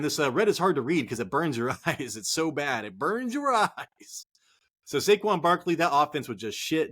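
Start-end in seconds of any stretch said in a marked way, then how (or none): 2.8-4.2 slow, drawn-out mock whine; mock complaint. Host joking to viewers about red graphics, slow mock whine. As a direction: whine it slowly for laughs.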